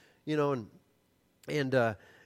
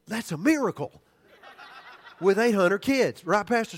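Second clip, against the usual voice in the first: laughing; 5 semitones higher, 7 dB louder than usual. Real, not acted. Marvelling at quiet kids.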